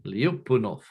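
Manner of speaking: Lyapunov with emphasis on the second syllable; Russian-style stress. Shown as a demonstration. Lecturer repeats the word for students, Lyapunov stressed on second syllable. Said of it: "you have to put the emphasis".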